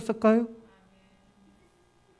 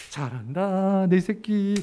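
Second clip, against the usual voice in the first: doting praise; 3 dB quieter, much slower than usual. Retold or imitated. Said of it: "이러면 안 돼요".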